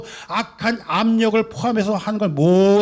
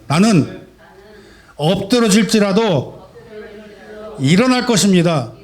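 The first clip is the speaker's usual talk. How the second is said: strong declaration. Real, not acted. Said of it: "저와 함께 힘차게 고백하고 선포하시기 바랍니다".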